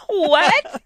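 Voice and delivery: high laughing disbelief; incredulous what. Retold or imitated. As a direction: squeak it out in laughing shock. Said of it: "I'm like".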